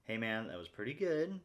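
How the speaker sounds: lightly voiced coach praising himself; a slightly lifted, encouraging self-talk voice; inner coach voice. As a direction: talk to yourself like a supportive buddy. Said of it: "talk to myself in this voice".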